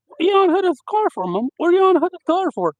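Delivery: high, loud, fast disbelieving question; incredulous brother. Retold or imitated. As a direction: fire it off in shocked disbelief. Brother finds mom on car hood.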